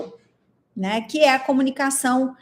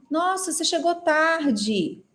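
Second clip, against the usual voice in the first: slower, dismayed take of the line; second take, more reproachful; surprised reproach; 4 semitones higher, 3 dB quieter, slower than usual. Shown as a demonstration. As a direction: let "Nossa" carry dismay over lateness. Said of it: "Agora, se eu falar assim".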